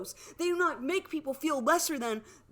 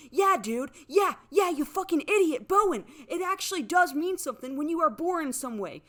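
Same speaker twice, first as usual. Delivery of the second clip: higher and louder, spitting the insult; furious yelling; 4 semitones higher, 5 dB louder than usual. Real, not acted. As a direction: yell at him in real rage. Insulting Bowen in rant.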